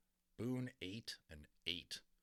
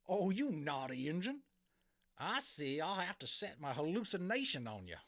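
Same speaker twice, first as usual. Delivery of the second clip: high, loud mock scolding; mocking cowboy; 7 semitones higher, 5 dB louder than usual. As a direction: tease him like a naughty child. Cowboy mocks the Indian.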